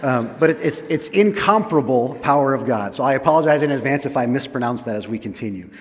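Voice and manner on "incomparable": "incomparable" stressed firmly on COM; correct stress. Shown as a demonstration. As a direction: hit the second syllable in "incomparable", in-COMP-ruh-bul. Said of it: "right emphasis on the right syllable".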